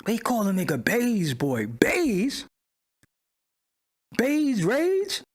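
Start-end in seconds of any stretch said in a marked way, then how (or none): 1.7-5.2 much higher, mocking question; amused disbelief. Real, not acted. Streamer mocks a rapper's phrase, amused. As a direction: toss the phrase back, amused.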